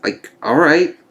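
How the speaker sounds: a dry whispered all right; whispered aside. Real, not acted. Viewer doubting she can still use magic, dry whisper. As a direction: drop to a whisper, resigned. Sarcastic aside after a question.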